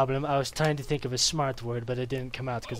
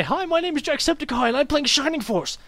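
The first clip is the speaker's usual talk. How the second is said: higher mock Irish greeting, a bit louder; a cheery Irish YouTuber barging in; Jacksepticeye Irish accent; 13 semitones higher, 5 dB louder than usual. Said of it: "Just shows up one day".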